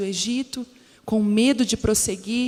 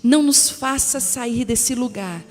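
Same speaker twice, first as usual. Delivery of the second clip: emphatic, projected Bible reading; scripture reading; 4 dB louder than usual. Acted. Reading Moses' plea to the Lord aloud, emphatic scripture reading. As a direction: proclaim the verses to a congregation, stressing key phrases.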